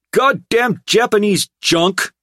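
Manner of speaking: loud, high furious snarl; angry snarl. A narrator's reading. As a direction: spit it out in disgust. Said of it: "Tripp snarled".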